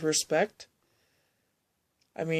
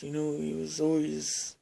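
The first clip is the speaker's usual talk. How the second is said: put-on Native American accent; 5 dB quieter than usual. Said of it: "kinda like this".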